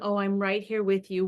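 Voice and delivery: gentle, even reassurance; steady, calm parent voice. Acted. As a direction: reassure without any fuss. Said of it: "with a calm sense of spirit".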